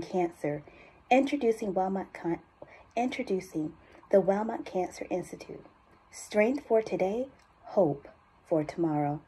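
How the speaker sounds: understated urgency in a measured voiceover; serious, focused appeal for a cancer institute; urgent ad read. Acted. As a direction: drive gentle tension through the commercial copy. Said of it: "I felt that urgency".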